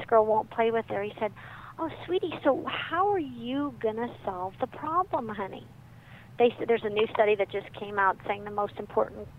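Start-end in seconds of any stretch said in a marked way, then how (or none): 1.8-5.7 lovely tender father. Retold or imitated. Dad answers his sobbing four-year-old daughter, tender. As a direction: coax a sobbing child gently. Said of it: "the father was lovely".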